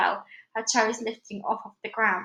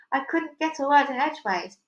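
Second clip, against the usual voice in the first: alien voice; 4 semitones higher than usual. Acted. Alien replies.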